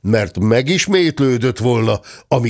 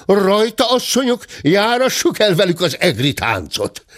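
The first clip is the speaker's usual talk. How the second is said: high-pitched call to arms; high, eager rallying cry; rallying market woman; 10 semitones higher than usual. A narrator's reading. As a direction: urge the women on in a high voice. Market woman rallies the women.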